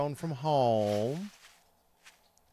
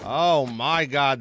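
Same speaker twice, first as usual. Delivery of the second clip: startled exclamation; 2 semitones higher, 6 dB louder, slower than usual. Real, not acted. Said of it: "that sounded angry".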